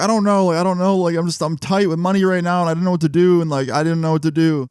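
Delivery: high-pitched imitation of someone crying; mock tearful. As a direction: retell her pleading in a high, mildly whiny cry. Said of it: "And she started crying".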